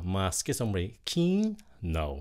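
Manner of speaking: "Kino" stressed on a long "kee" after "Mas"; second-syllable stress. Shown as a demonstration. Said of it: "mình nhấn cái âm thứ nhì nha".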